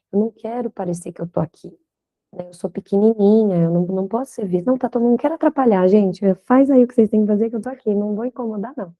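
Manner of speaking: lightly voiced timid client, hurried; a hint of someone making themselves small, fast; submissive client. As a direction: rush through it apologetically, trying not to be noticed. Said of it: "uma postura de submissão muito grande".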